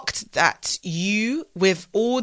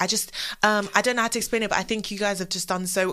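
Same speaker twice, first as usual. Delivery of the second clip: stammering quietly; 2 semitones lower, 8 dB quieter, faster than usual. Retold or imitated. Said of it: "like, stammering".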